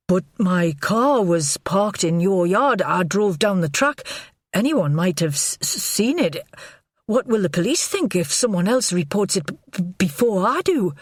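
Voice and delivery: lightly voiced jittery man, stammering; a hint of a panicky lover fumbling for excuses; nervous Godfrey. Godfrey panics about his car.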